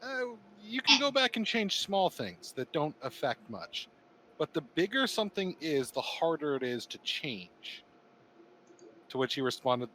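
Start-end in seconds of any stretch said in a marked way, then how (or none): 0.0-7.8 higher, drawn-out voice for Santa answering; quoted Santa Claus reply. Retold or imitated. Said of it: "was the responder going".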